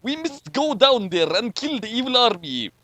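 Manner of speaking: a hint of a Russian officer; Chekhov voice. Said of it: "said Chekhov".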